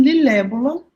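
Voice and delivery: lilébula, swapped syllables, said lightly; lilébula as the toddler said it; child's mispronunciation. Retold or imitated. Mother quoting son's word lilébula, lightly imitated. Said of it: "E ele falou assim".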